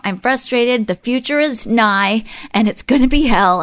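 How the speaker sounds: retold doom-laden venting; stressed out. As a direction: imitate someone freaking out, slightly high. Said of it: "incredibly stressed out, freaked out about the future".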